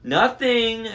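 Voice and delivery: high falsetto squeak, loud; high-pitched falsetto voice. A narrator's reading. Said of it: "in his falsetto voice".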